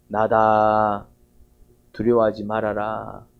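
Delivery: Jesus on the water calming his disciples, slow and gentle; gentle reassurance. Acted. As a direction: speak as Jesus calming frightened disciples, unhurried. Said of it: "그런 속삭임이 들립니다".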